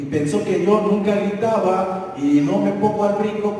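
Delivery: ordinary talk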